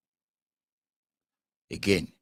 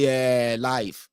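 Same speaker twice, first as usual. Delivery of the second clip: thanksgiving testimony; 3 semitones higher, 3 dB louder than usual. Retold or imitated. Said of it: "They say".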